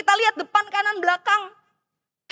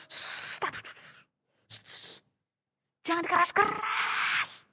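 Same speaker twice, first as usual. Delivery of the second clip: hushing; 7 dB quieter, slower than usual. Acted. Poltak hushes his friend.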